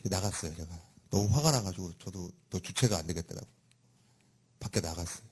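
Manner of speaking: normal talking voice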